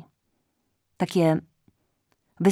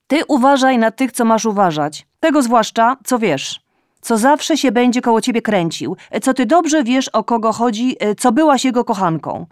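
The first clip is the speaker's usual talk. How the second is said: loud, high nagging reproach; scolding mother; 5 semitones higher, 6 dB louder than usual. A narrator's reading. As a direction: lecture her like an indignant mother. Mother warns daughter on phone. (matka głośno i z wyrzutem strofuje córkę)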